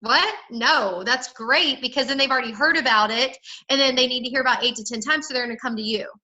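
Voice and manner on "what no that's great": incredulous. Shown as a demonstration. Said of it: "That's how I talk".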